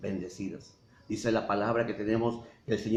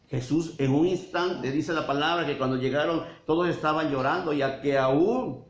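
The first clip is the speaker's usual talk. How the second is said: rising fervour; 5 semitones higher than usual. Real, not acted. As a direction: swell with conviction as it climbs. Preacher builds to climax.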